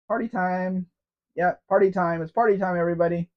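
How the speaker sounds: upbeat party shout; party cheer. Real, not acted. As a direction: hype up the fireworks. Cheering before fireworks.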